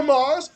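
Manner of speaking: "Hamas" with a hard throaty K-like H, high and loud; mock Israeli pronunciation. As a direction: hit "Hamas" as "Khamas". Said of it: "how the assholes say Hamas".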